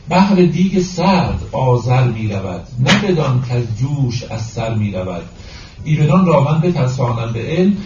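deliberate, metrical Persian verse delivery; poetry recitation. Acted.

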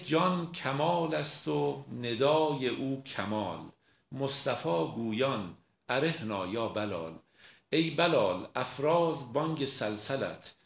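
slow, measured verse recitation; poem recitation. Acted. Lecturer quoting Rumi on Bilal's call, slow poem recitation. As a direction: recite the couplets slowly, drawing out the long syllables.

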